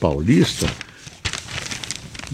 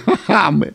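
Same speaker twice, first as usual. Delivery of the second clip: amused chuckle; 8 semitones higher than usual. Real, not acted. Laughs at absurd headline.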